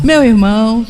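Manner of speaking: lightly imitated fond brother call; a hint of the pastor's tender tone; tender greeting. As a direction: say it with affection. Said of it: "ele falou várias vezes assim".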